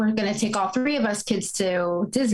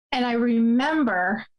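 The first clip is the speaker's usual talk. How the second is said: trying not to cry; 3 semitones higher than usual. Real, not acted. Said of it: "I'm gonna try not to cry".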